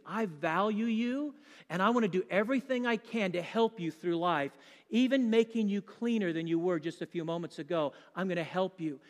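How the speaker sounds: put-on a parent's quiet promise to the baby; tender to a baby. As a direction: gently reassure a little infant. Speaking to a baby being changed.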